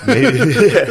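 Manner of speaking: bursting into real laughter, loud and high; laughing. Real, not acted. Retelling Trump's phone call, he bursts out laughing. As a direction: crack up mid-word.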